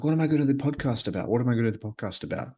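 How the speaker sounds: fast, high panicky mutter to himself; racing worried inner voice; anxious inner voice. Retold or imitated. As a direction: rattle it off like a nervous thought. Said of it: "this voice in my head was like".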